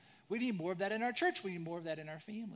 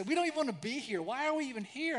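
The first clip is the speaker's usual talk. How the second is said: mock whine; 5 semitones higher, 6 dB louder than usual. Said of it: "they begin to whine and say".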